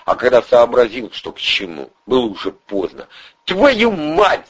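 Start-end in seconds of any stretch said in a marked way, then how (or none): 3.5-4.5 high shout of «Твою мать» on «твою»; high, loud shouted «Твою мать»; shouted curse. Acted. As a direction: yell «Твою мать» as the crash comes. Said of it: "закричал он".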